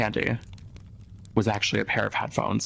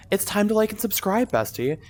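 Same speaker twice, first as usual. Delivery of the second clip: high cutesy; 10 semitones higher than usual. Acted. Cutesy subscribe plea.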